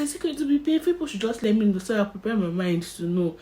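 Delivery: high, anxious asking; lightly voiced patient fear; nervous question. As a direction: worry aloud before the needle. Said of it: "I asked her".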